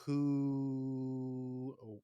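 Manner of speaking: mock Pacino shout; Al Pacino impression. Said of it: "this is the moment where he goes".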